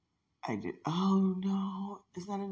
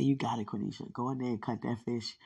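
lower, calm commanding voice; voice of God; 8 semitones lower, 7 dB quieter, faster than usual. Retold or imitated. God telling Cornisha to cut the fish, lower and commanding. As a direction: speak down to her like God encouraging. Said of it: "God said".

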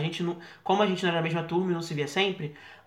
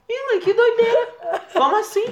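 high, much higher put-on amazement, laughing; feigned disbelief; 4 dB louder than usual. Son faking surprise to his mother, high and laughing. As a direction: act baffled and innocent.

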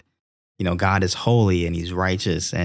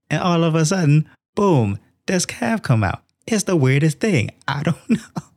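higher, pleading excuse-maker voice; a sheepish Aaron talking fast, higher; flustered Aaron; 5 semitones higher than usual. Retold or imitated. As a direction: act out a caught brother rambling excuses. Aaron excusing himself to Moses.

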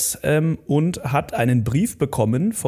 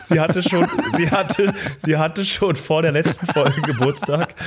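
laughing; 3 semitones higher than usual. Real, not acted. Still laughing while explaining.

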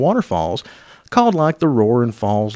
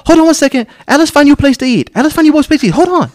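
mock broken English; 14 semitones higher, 5 dB louder, faster than usual. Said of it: "She's like".

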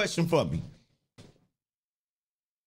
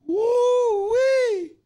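laughing whoop; 12 semitones higher, 6 dB louder than usual. Real, not acted. Laughing fit after joke.

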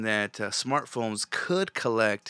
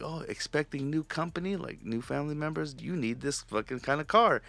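a hint of a sales pitch; mock ad pitch; 4 semitones higher than usual. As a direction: parody a pushy car ad, pitched up. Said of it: "things like".

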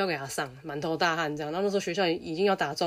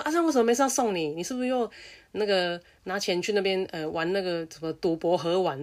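interrogating teacher; 2 semitones higher than usual. Retold or imitated.

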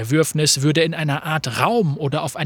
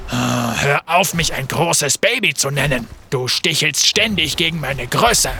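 grumbling complaint. Acted. Graves arguing with Fate.

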